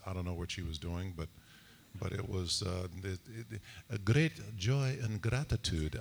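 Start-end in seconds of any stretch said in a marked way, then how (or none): 3.9-6.0 lightly imitated odd alien accent; a hint of an invented alien accent; Marina's strange alien accent. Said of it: "that's the way she talked".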